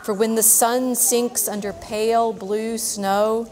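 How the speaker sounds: slow, rhythmic verse reading; poem reading. Acted. Teacher reading the albatross's verse to kids, slow and rhythmic. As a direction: let each line ring out slowly.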